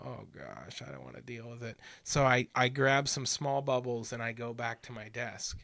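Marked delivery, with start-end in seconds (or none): 0.0-1.8 sag into it like the chore is too much; reluctant groan. Retold or imitated. Retelling own reluctance at machine.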